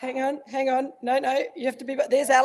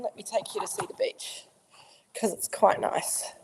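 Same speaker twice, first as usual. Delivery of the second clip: soft unvoiced whisper; 6 dB quieter than usual. Real, not acted. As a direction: whisper so as not to disturb. Whispering while people wash dishes.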